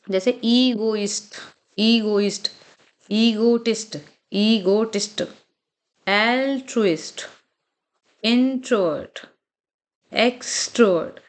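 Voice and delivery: slow, word-by-word model reading; pronunciation demo. Shown as a demonstration. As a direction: say each word out slowly, from ईगोइस्ट to extrovert, with gaps between. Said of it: "आपको हर words को अलाउड बोलना है". (धीरे-धीरे, हर शब्द का साफ़ उच्चारण)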